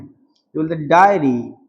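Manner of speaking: डायरी said slowly with three vowels; slow demonstration. Shown as a demonstration. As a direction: show the app's way slowly. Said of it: "ये लोग ये बोलते हैं".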